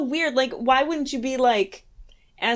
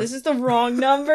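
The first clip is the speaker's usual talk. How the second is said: laughing quote; 2 semitones higher than usual. Real, not acted. Repeating movie line while laughing.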